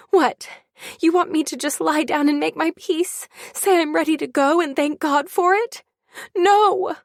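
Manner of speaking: high, loud and building to a shouted no; anger climbing to a scream; rising outburst. Acted. Mother rages at grandma, building to a high shout.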